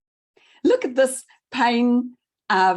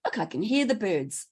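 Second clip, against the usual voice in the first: cheery inner thought; 2 semitones lower, 3 dB quieter, faster than usual. Shown as a demonstration. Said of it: "If we do a lovely thought".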